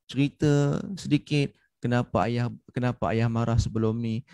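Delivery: subdued, unhurried explanation from the heart; heartfelt fatherly confiding. Retold or imitated. Father explaining his earlier anger to his child, heartfelt. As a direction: imitate a father gently opening up. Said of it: "si ayah tadi menggunakan emosi yang datang daripada hati dia".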